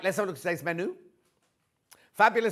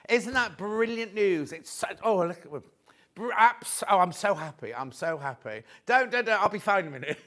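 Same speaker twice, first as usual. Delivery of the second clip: welling up; 2 semitones higher than usual. Real, not acted. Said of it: "I'm gonna get upset now".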